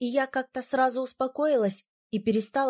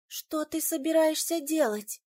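horrified whisper; 6 semitones higher than usual. A narrator's reading. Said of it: "с ужасом прошептала я".

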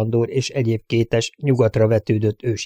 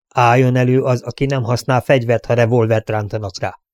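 a lawman pressing for a straight answer, a touch raised; stern sheriff questioning. Acted. Sheriff grilling the crowd about who drew first, stern. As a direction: demand the truth like a sheriff at a hearing.

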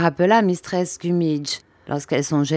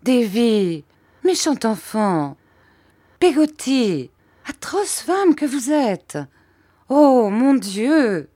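high, petulant scolding; capricious irritation; 7 semitones higher, slower than usual. A narrator's reading. Mother turning from son to servant, capricious irritation. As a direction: scold each in turn, pitch raised. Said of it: "une irritation capricieuse".

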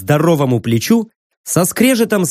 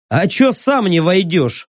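lazy; 2 semitones higher than usual. Acted. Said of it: "лениво поинтересовался я".

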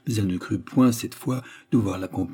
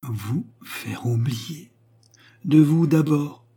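cool, measured rejoinder, raised pitch; cold; 6 semitones higher, 3 dB louder, much slower than usual. A narrator's reading. Widow rebuffing her old suitor, cold. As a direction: draw it out slowly and coldly. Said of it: "dit-elle froidement".

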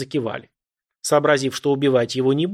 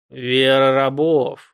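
irritated snort; 6 dB louder, much slower than usual. A narrator's reading. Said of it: "раздражённо фыркнул мужик".

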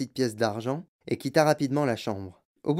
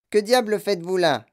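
loud and much higher, just woken; startled cry; 7 semitones higher, 5 dB louder than usual. A narrator's reading. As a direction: woken old woman crying out in alarm. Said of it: "s'écria grand-maman Joséphine, réveillée subitement". (grand-mère réveillée en sursaut qui s'écrie fort)

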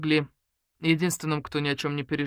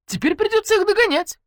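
sarcastic; 8 dB louder than usual. Acted. Matvey's sarcastic finish.

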